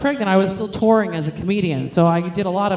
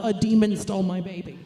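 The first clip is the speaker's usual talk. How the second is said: deadpan demon complaint. Retold or imitated. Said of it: "with the complaint of".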